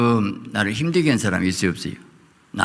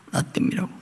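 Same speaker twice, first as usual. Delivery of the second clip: 속삭임; 7 dB quieter, faster than usual. Acted. 속삭이듯 낮춤.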